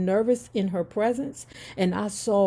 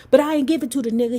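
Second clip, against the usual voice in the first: whispered aside; 5 semitones higher, 6 dB louder, much faster than usual. Real, not acted.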